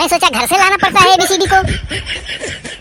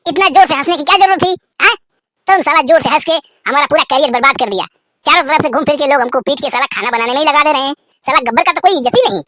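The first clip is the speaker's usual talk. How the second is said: angry rant; faster than usual. Acted. Gabbar ranting at Sambha for laughing, angry. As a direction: blame him in a fast rant.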